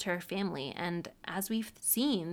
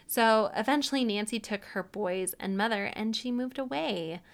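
ordinary delivery

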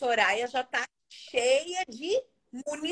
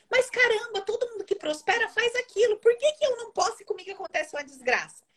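frustrated outburst; 9 semitones higher than usual. Pretend. Host voicing a viewer's frustration, high exasperated outburst. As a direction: throw up your hands at the unfairness. Voices the frustrated inner thought.

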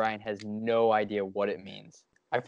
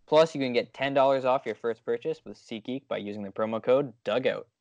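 ad read. Acted. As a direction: read it like a podcast ad. Ad read in podcast.

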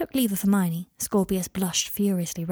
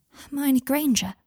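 slow, high, awed question; starstruck breathing; 6 semitones higher, slower than usual. A narrator's reading. Scorpius meeting Hermione Granger, starstruck. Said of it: "breathed Scorpius, looking starstruck".

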